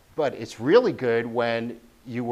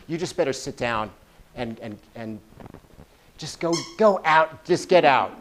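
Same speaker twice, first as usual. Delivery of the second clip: loud, pushy urging to leave the room; the critic chases you off stage; gremlin shooing you out; 3 semitones higher, 4 dB louder than usual. Acted. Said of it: "the gremlin has a really interesting kind of voice".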